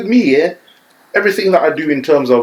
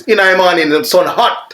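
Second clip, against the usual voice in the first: higher Jamaican accent, sun said like son; 6 semitones higher, 3 dB louder than usual. Shown as a demonstration. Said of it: "So something like this".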